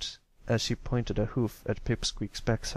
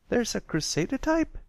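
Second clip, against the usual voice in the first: higher pitched filly, a bit louder; 13 semitones higher than usual. A narrator's reading. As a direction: blurt it out, a touch too loud. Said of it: "said out loud".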